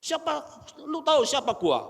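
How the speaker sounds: a proud preacher brags about his degrees; arrogant boast. Retold or imitated. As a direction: brag like a proud scholar. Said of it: "Wah, ini kan sombong".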